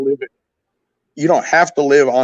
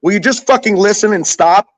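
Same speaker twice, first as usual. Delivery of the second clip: exasperated outburst, higher and quicker; getting emotional; 5 semitones higher than usual. Real, not acted. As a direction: snap at them to stop arguing. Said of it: "Why are you getting emotional?".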